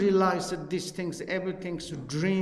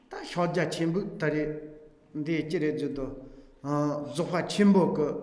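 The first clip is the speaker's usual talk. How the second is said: steady recitation of a Tibetan text; reading text aloud. Acted. Teacher reading page fourteen aloud to the students, measured recitation. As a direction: read the page to the class like a recitation.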